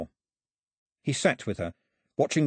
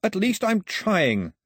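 slow, higher, louder yell of frustration; 10 semitones higher, 4 dB louder, much slower than usual. A narrator's reading. Mao yelling back at the dead priest, slow and loud. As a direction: shout it out, drawn out and desperate. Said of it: "Mao yelled".

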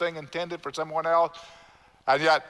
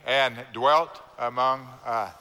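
slow unison recitation; 5 semitones lower, slower than usual. Shown as a demonstration. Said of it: "Say it with me".

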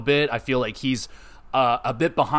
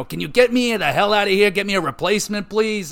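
a hammed-up Italian accent, higher, louder and fast; mock Italian accent; 6 semitones higher, 3 dB louder, faster than usual. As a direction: play retired Rey pleading in a jokey Italian accent. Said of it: "he just turned into an Italian".

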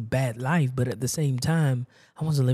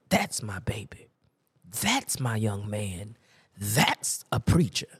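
slow, drawn-out proud mother's praise; slowly imitating a mother's pride; 3 semitones lower, slower than usual. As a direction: savor each phrase like a proud mom, low-key. Preacher voices proud mother.

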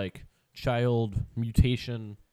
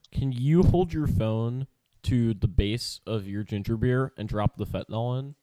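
ASMR whisper; 4 dB louder than usual. Acted. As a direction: whisper it close to the mic. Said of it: "good A S M R".

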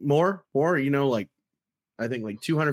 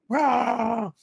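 high-pitched pretend roar; mock yell; 9 semitones higher than usual. Cohost acting out a friend's hot dog tantrum, mock yelling. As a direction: act out an enraged roar, playfully. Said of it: "walking around the house yelling".

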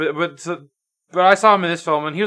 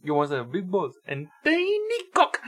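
higher, softer echo of a bad French accent; terrible French accent; 4 semitones higher, 3 dB quieter than usual. Friend echoing Robert Pattinson's line, bad French accent. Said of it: "he has the worst French accent".

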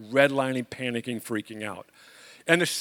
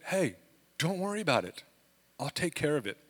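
reassuring; 6 dB quieter than usual. Retold or imitated. Septic worker calming the panicked homeowner, softly reassuring. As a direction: soothe him like a kind stranger.

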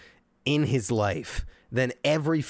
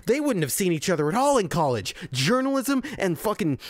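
fast, raised, spluttering tirade against the movie; furious rant; 4 semitones higher than usual. Real, not acted. Reviewer ranting at the movie he hated, raised and furious. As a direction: rant like you're foaming at the mouth. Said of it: "I'm so angry".

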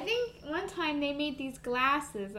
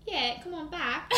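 light British accent on request; playful put-on British accent; 3 semitones higher than usual. Shown as a demonstration. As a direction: call them over in a British accent. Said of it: "say that in a British accent".

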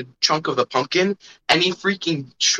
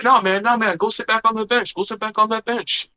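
higher mock kid ordering him; mock bossy kid; 7 semitones higher than usual. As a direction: imitate a cocky little kid bossing him. Kids bossing him around, retold.

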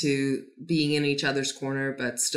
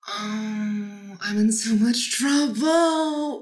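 higher, very slow whiny plea; pleading puppy-eyed guy; 4 semitones higher, much slower than usual. Retold or imitated. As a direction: beg like a kid caught doing wrong. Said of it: "also when he is just like".

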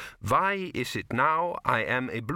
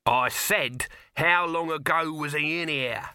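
raised, louder voice over the noise; shouting; 5 semitones higher, 3 dB louder than usual. Acted. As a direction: shout it across a noisy room. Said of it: "shouted Dibbler".

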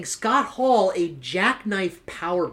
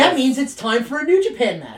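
excited; 4 semitones higher than usual. Real, not acted. Mock hype at entrance music.

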